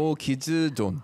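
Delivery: put-on no kids zone again in a light Korean accent. Shown as a demonstration. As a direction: repeat it with a Korean lilt. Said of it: "Can you say that one more time".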